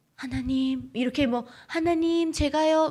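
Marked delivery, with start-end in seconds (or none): 1.7-2.9 put-on pretty Seoul accent, much higher. Showing the audience how they call on God, in a pretty Seoul accent. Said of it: "예쁘게 서울말씨로".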